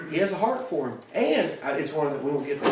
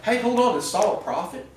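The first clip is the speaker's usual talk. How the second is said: higher, louder mock astonishment; amazed bystanders; 7 semitones higher, 4 dB louder than usual. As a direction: gasp it like a gawking crowd. Crowd amazed at naked Saul.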